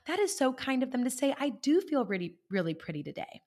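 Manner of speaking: grateful self-talk. Retold or imitated. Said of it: "you can have the thought of".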